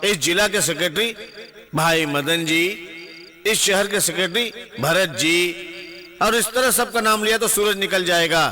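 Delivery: public address from a platform; political stump speech. Acted. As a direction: address the rally, phrase by phrase. Gives a political speech to a crowd.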